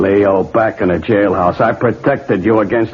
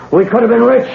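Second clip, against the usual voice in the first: anguished outburst; 11 semitones higher, faster than usual. Acted. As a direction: wail it out in frustration. Arrested gunman rails at Leo.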